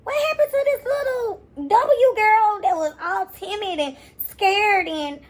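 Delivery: high, half-laughing disbelief; high mock outrage with a laugh; incredulous. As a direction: squeal out the question in mock shock. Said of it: "I'm just like".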